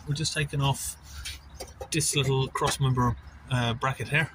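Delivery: talking while lying under a car; strained, working on your back under a car. Real, not acted. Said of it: "Okay, I'm under the car".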